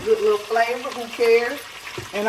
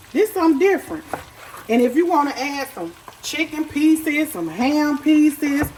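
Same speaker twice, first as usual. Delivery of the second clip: excited hype; 5 semitones higher than usual. Real, not acted. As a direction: pitch it up like a sales pitch. Hyping the dish to viewers.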